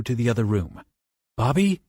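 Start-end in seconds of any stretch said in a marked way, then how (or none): 1.4-1.8 calling question. Acted. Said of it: "he asked".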